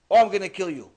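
imitating a king's loud threat at his artists; angry threat. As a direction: threaten them like an enraged king.

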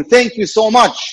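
put-on slow, lightly Italian-accented thanks; a hint of an Italian accent, drawn out. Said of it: "in his Italian accent".

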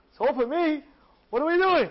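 high, loud disbelief; can't believe the gift; astonished. Acted. Yossi astonished at the gold on the table, high and loud.

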